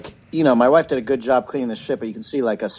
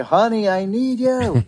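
calling out; 11 semitones higher, slower than usual. Retold or imitated. Calling wife from bathroom.

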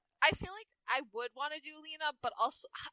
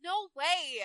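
Lena; 2 semitones higher than usual. Acted. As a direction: exclaim it like a Valley Girl. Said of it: "make Lena a Valley Girl".

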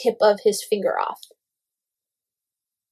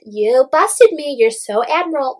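mock teasing; 4 semitones higher, 4 dB louder than usual. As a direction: imitate her needling him with fake admiration. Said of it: "like, teasing him".

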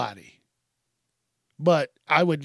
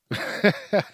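breathy giggle; 5 semitones higher than usual. Real, not acted. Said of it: "Calm down, Chuck".

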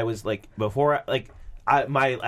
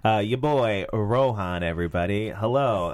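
lower, slow sultry voice; 5 semitones lower, slower than usual. Acted. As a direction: lay on the sultry voice, low. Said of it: "I'm gonna do this in a very sultry voice".

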